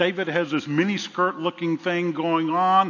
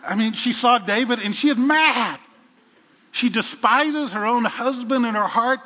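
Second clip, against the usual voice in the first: laughing; 8 semitones higher, 6 dB louder than usual. Real, not acted. Laughing about Michal being mad.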